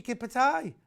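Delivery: high-pitched imitation Black Country "Kippatai"; Black Country accent. Quoting the man next door, imitated Black Country accent. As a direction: mimic the Black Country way of saying it. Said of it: "who comes from the black country".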